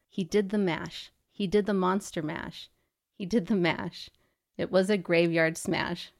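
reading song lyrics aloud with light rhythm; half-chant the lyrics without singing. Acted. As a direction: lyrics read straight through. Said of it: "I'll just read it straight through".

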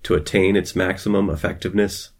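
grand infomercial pitch. Acted. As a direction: sell it like a magisterial document. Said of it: "You sound like a weird infomercial".

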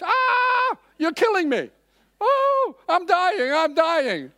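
high, loud hammed-up anguished whine; whining dying flesh. Preacher voicing his flesh complaining on the second fast day, mock anguish. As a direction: groan like fasting is killing you. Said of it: "the flesh is screaming like".

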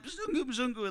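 high, soft mock kids' yell. Village kids calling to the foreigner, soft mock yell. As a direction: imitate children calling out, held back in volume. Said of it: "they're all yelling".

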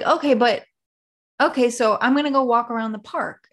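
a hint of an earnest, confused mother; clueless mom. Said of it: "she's like".

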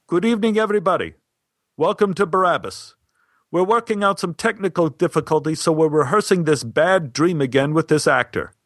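lightly projected welcome to a theater crowd; addressing the audience. Retold or imitated. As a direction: imitate a director addressing the house. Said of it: "Stein addressed the audience".

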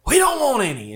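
put-on high, loud, curt brush-off from an annoyed old lady. Annoyed lady brushing off a cold-calling salesman, high and curt. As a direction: cut him off sharp and high, then hang up.

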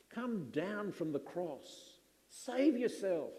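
jeering. Retold or imitated. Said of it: "they jeered".

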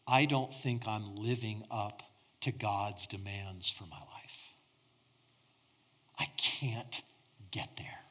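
breathy, fading near-whisper of dread; fearful inner voice. Retold or imitated. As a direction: let the confession sink into a hushed whisper. Voicing a person's inner terror.

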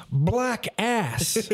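high, accented imitation of coworker; imitating the coworker's accent; Guatemalan coworker. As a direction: say it in his broken English. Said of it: "and he says".

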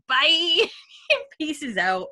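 high, loud mock goodbye; comic quick farewell. Imitated Murta fleeing the family row, comic high farewell. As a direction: toss out a cheery escape line.

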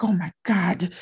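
hammed-up Nigerian accent. Coach mimics her amazed client in Nigeria, in a Nigerian accent. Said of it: "I'm doing a horrible Nigerian accent".

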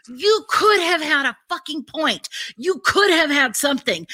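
loud, high furious scolding; angry yell. Retold or imitated. Scolding the couple, loud furious yell. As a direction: yell it like they blew it. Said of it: "I was like".

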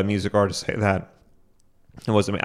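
throat catching on spit; choking on spit. Real, not acted. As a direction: talk while choking on spit. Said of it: "I'm getting choked up here".

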